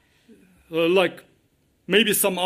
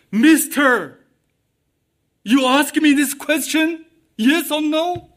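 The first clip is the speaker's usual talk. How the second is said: higher, questioning comeback; demonstrated challenging tone; 4 semitones higher than usual. Shown as a demonstration. Man by the pool answering Jesus, challenging. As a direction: throw the question back at him. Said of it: "or certain tones".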